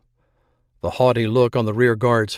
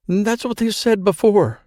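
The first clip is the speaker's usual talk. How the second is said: high, furious hiss of a frantic woman; a panicked woman turning on the man who promised to protect her, hissing; hissed like possessed; 10 semitones higher than usual. A narrator's reading. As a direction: spit it at him, half out of her mind. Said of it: "She hissed it out like a woman possessed".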